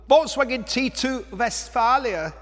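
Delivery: a lightly put-on camp German accent, slow; playful camp German accent on the van name. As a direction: say the name like a hammed-up German announcer. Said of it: "I better stop doing that camp German voice".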